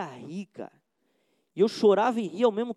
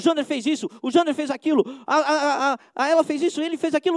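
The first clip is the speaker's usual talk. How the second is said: laughing mockery; 6 semitones higher, 6 dB louder than usual. Mocking gossip with laughter.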